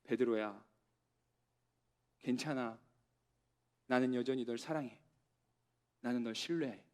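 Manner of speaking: soft, low, gentle comfort with long pauses; gentle reassurance to a grieving disciple, quiet and low; Jesus, tender. Acted. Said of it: "그건 이런 눈빛이었을 거예요".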